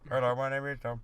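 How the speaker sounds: put-on light Indian accent. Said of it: "please stop with the Indian accent".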